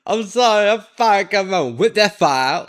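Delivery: high-pitched mimicking echo; teasing high-voiced repeat; mocking mimicry. Mimics the clip speaker's words, high.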